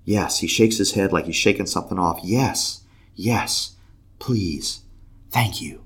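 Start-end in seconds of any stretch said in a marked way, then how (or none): 0.0-0.4 peaceful. Retold or imitated. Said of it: "he's all peaceful". 2.2-5.8 peaceful. Retold or imitated. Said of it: "he's all peaceful".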